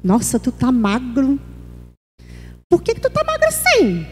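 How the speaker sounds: tactless nosy astonishment. Acted. Churchgoer commenting on someone's weight, tactless astonishment. Tactless remark voiced as example.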